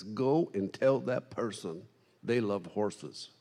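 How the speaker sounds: slow, soft divine instruction; a calm, unhurried command; voice of God. Retold or imitated. The Holy Ghost telling the preacher, slow and soft.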